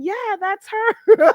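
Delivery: chat voice. Retold or imitated. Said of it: "the chat is over there saying".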